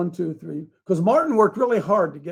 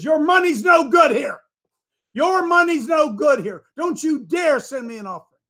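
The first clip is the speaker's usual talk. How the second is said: quoting a friend; 8 semitones higher, 5 dB louder than usual. Retold or imitated. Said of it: "He says".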